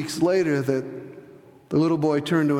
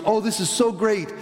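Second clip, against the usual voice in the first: lightly voiced eager teacher, higher pitch; a hint of an earnest, higher-voiced teacher; retold schoolteacher; 5 semitones higher than usual. Classroom teacher asks hospital teacher for help, lightly voiced, higher and earnest. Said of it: "And the teacher goes".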